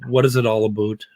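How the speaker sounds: put-on Canadian "aboot" for about; mock Canadian accent. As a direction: ask it in a stereotype Canadian accent. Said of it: "somebody's speaking Canadian".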